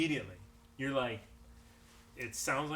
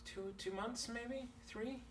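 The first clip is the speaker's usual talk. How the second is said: sick Darius; 10 semitones higher, 10 dB quieter, slower than usual. Acted. GM voices sick Darius answering.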